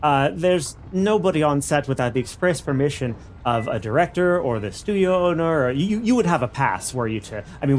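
studio guard. Acted. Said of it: "He goes".

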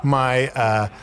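muffled behind hands; hands over mouth. Real, not acted. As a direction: talk through covered mouth. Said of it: "I'm gonna put my hands over my mouth".

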